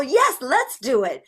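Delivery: high, eager yes; childlike excitement. Acted. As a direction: jump in like a keen kid. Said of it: "what does a child sound like?".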